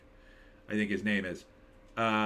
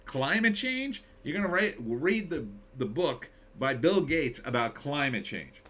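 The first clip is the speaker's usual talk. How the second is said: incredulous. Real, not acted. Incredulous rant at reader.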